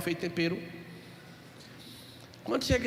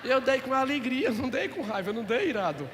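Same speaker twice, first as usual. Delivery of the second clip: laughing; 4 semitones higher, 4 dB louder than usual. Real, not acted. Laughs at his punchline.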